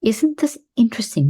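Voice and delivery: calm demo of the phrase. Shown as a demonstration. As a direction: say it gently, over and over. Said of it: "Notice the tone of my voice. Notice that it's calm".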